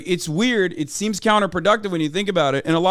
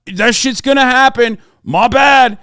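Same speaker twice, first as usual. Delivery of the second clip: louder, higher shrugging parody; mock dismissive quote; 4 semitones higher, 6 dB louder, slower than usual. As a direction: play a careless bro brushing off a murder. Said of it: "story and going".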